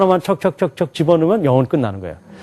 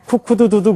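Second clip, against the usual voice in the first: American rooster sound; 6 semitones higher than usual. Shown as a demonstration. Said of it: "미국 사람들은 뭐라 그래요?".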